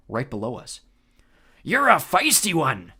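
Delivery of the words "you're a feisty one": slow, loud monster voice; Cyclops bellow. Acted. Cyclops taunting captive Clarice, slow loud bellow. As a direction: boom it out like a giant. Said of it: "the deep voice bellowed".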